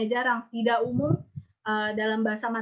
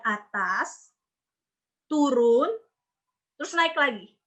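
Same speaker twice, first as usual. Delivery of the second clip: curving pitch. Shown as a demonstration. Teacher tracing tone three's shape, swooping pitch. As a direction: pitch acts out down, then up. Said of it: "itu melengkung".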